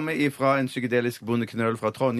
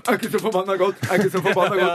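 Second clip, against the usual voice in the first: a hint of the screaming baby, higher; mock baby shout; 6 semitones higher, 3 dB louder, faster than usual. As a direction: lightly quote the angry newborn. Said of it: "da må du ta denne".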